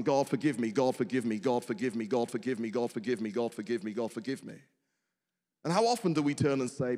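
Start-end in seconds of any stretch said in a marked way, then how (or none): 0.0-4.6 repeated pleading prayer. Retold or imitated. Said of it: "we're often asking".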